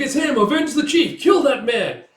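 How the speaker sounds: high, loud battle cries; vengeful shout. Retold or imitated. Warriors spot the chief's killer, vengeful shouting. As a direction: whip the men up to attack. Mob calling for revenge.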